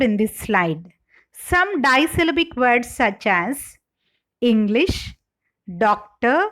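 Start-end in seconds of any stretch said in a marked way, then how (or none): 4.4-5.1 "English" stressed as ENG-lish; first-syllable stress. Shown as a demonstration. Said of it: "are stressed on the first syllable". 5.8-6.5 "doctor" stressed as DOC-tor; first-syllable stress. Shown as a demonstration. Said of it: "are stressed on the first syllable".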